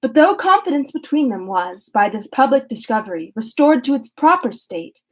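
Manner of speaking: steady, measured reading of a classic novel; calm audiobook-style narration; story narration. A narrator's reading. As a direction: read it out evenly for listeners. Reads the novel aloud.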